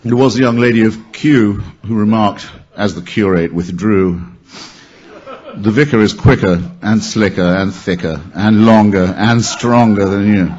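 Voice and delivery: emphatic, rhythmic verse delivery; limerick recitation. Acted. Reciting a bawdy limerick to an audience, emphatic. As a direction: punch out the rhymes, building the list.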